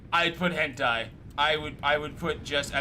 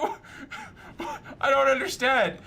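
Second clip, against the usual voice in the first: mock bewilderment; 9 semitones higher, slower than usual. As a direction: play baffled at the ad. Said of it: "I'm like".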